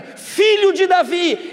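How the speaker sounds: high, slow cry of Son of David; shouted plea. Retold or imitated. Blind man crying out to Jesus, high and slow. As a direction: call out for the Messiah. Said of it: "Quando Bartimeu grita".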